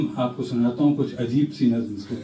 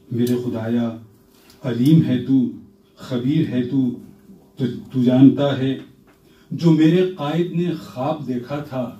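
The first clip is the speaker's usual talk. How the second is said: stately nazm recitation. Acted. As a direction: recite it with gravity. Poet recites his prayer nazm.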